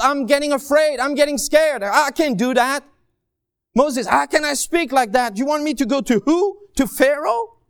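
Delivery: a frightened believer pleading to God; mock panicked whining; fearful complaining.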